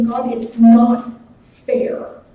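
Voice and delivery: put-on drawn-out, slow childish whine; whiny child complaint. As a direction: whine it slowly like a sulking kid. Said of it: "like my eight-year-old children do".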